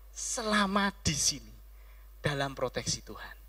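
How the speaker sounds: quiet, falling restatement; hushed echo of the proclamation; soft repeat. Acted. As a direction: drop back and say it softly. Preacher repeats the line softly.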